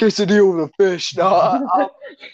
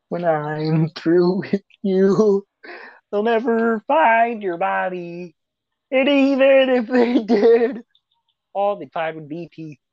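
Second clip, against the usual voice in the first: game villain threat; slower than usual. Retold or imitated. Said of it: "He just imitates the game".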